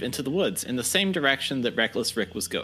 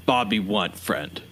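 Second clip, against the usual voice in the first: simple-minded Bobby; 4 semitones lower, slower than usual. Acted. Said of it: "Bobby kind of looks at you and says".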